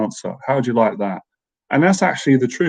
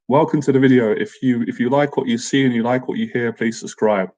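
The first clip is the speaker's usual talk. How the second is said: reading the intro line in a lightly upbeat host voice. Shown as a demonstration. Reading his video intro aloud to viewers, lightly upbeat. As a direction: read it out like the channel intro. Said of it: "It says".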